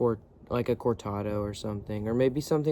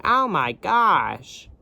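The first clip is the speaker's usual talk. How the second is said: slow, higher, louder drawn-out gasp of disbelief; mock amazement; 7 semitones higher, 7 dB louder, much slower than usual. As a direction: stretch it out like you can't believe it. Reacting to Linda's story.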